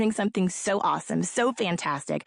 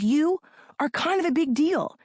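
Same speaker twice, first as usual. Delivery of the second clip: higher and punchy on kind; excited emphasis; 6 semitones higher than usual. Real, not acted. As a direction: lift it up, proud and bold. Repeat of her catchphrase, raised.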